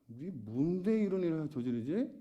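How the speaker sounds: slow, drawn-out mock challenge; acted indignant questioning; confrontational challenge. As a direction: demand an explanation, imitating an accuser. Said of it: "오히려 예수님이 따집니다".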